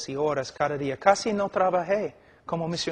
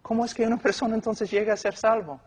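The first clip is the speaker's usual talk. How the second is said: questioning listener; 5 semitones higher than usual. Retold or imitated. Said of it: "Tú dices".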